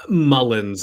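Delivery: Mullins said slowly as "MUL-ənz"; correct surname pronunciation. Shown as a demonstration. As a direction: draw out Mullins, first vowel as in "mud". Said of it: "How can we pronounce your surname correctly?". (Mullins pronunciado despacio «MÁ-lens»)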